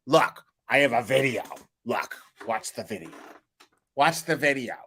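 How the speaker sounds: hammed-up mockery of her sniping; mock attacking rant. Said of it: "in this weird attacking way".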